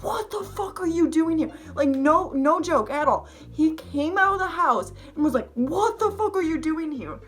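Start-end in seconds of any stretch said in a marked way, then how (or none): 0.0-1.5 imitated menacing man, pitched up; mock-menacing challenge to a stranger; sinister voice. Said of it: "in, like, the most sinister voice". 5.6-7.2 imitated menacing man, pitched up; mock-menacing challenge to a stranger; sinister voice. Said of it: "the most sinister voice".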